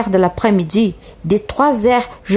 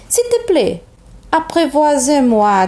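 renard suppliant; 5 semitones higher than usual. Acted.

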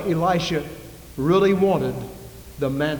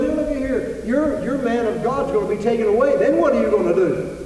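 higher, needling mock voice; mock taunt; 5 semitones higher than usual. Young preachers mock Elisha in a higher, needling voice. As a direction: sneer it up high.

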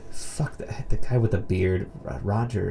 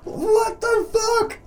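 much higher, slow drawn-out disbelief; stunned dude; 3 dB quieter, much slower than usual. Retold or imitated. The dude left stunned in the scene, slow high disbelief. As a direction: stretch it out, dumbfounded. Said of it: "just the dude like".

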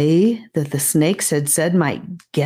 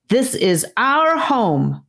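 defiant snake; 6 semitones higher, slower than usual. A narrator's reading.

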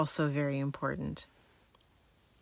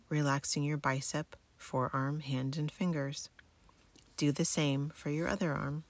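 sleep story narrator. Acted. Guides military sleep method relaxation.

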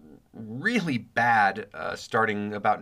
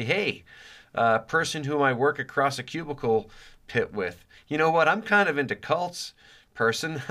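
higher-pitched, awkward pitch to a coworker; mock conversation opener; 4 semitones higher than usual. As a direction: pretend to casually sound out a cubicle neighbor. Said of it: "and to say".

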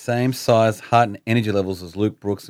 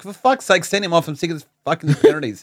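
angry; 8 semitones higher than usual. Retold or imitated. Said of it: "I was like".

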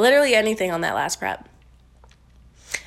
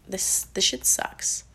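whispered aside; 5 dB quieter, slower than usual. Real, not acted. Muttered remark.

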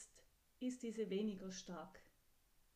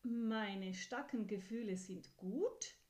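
louder, rising in disbelief on gut; can't believe it is allowed; astonished question; 4 dB louder than usual. Acted. Horse asking the kind voice, surprised and rising. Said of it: "fragt Pferd erstaunt".

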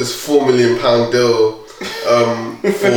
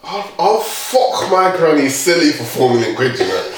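lightly faked Australian; terrible Australian accent; 3 semitones higher than usual. Australian guy answering his workmate, badly faked Australian accent. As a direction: put on a rough Aussie accent. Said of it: "My, my Australian accent is terrible".

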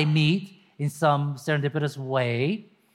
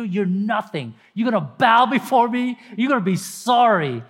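gloating, threatening the brothers; spiteful bully voice; mean taunting; 3 semitones higher, 3 dB louder than usual. Acted. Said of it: "sounds mean".

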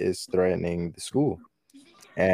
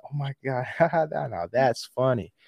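laughing; 6 semitones higher than usual. Retold or imitated. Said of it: "he was like".

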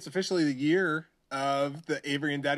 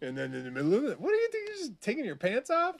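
dog voice. Acted. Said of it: "I'll talk for her".

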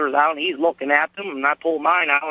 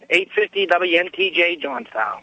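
a little hoarse from a cold; hoarse, getting over a cold. Real, not acted. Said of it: "if I sound a little hoarse to you".

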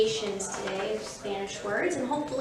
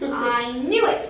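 slow, drawn-out indignation; exasperated; 5 dB louder, slower than usual. Acted. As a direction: stretch it out in mock exasperation. Iguana smacks tail, fed up.

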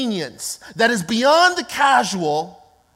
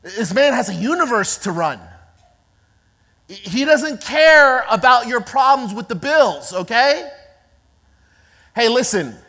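scolding crowd; 2 semitones lower, 4 dB louder than usual. Acted. Crowd telling the blind man to keep it down, stern scolding. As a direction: hush him, then lecture him sternly. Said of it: "telling him to what?".

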